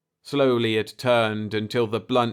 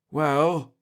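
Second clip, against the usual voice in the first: tense; 6 semitones higher than usual. A narrator's reading. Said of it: "said Pete tensely".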